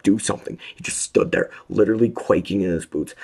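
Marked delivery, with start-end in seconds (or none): 0.0-0.6 loud, higher demand; loud shout. A narrator's reading. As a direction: shout at the guard. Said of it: "echoed that sentiment loudly".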